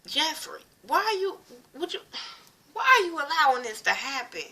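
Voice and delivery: high, strained disbelief at the screen; exasperated plea. Real, not acted. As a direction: beg him to stop it, voice climbing. Yelling at Jeffrey on screen.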